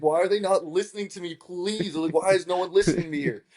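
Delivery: high, rushed exasperated pleading; losing my mind. Retold or imitated. Contestant nobody listens to, frantic high pleading. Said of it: "I was, like, losing my mind".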